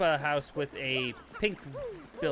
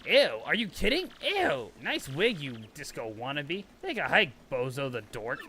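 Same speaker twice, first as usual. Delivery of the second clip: disgusted rejection; slower than usual. Acted. Goombella telling off the French sleaze, scornful. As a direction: sneer at the flirt.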